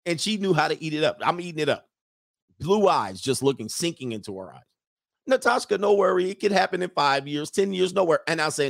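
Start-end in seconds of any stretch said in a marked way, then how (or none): 5.3-8.2 high imitation of a foreign girlfriend's accent; Natasha's accent. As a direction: brush it off in her high mimicked accent. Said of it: "in her accent".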